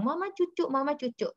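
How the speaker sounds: put-on high toddler voice asking for milk; lightly voiced small child; imitating a toddler. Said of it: "ketika anak bilang".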